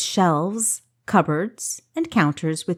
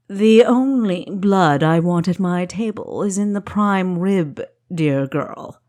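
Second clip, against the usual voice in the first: lightly voiced courtly host Hayland, a touch louder; genteel host; 4 dB louder than usual. Host Hayland soothing his guest, lightly voiced courtly host. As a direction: play the gracious host, gently in charge.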